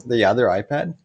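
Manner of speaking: calling out loud to another room; yelling across the room. Real, not acted. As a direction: raise your voice to reach upstairs.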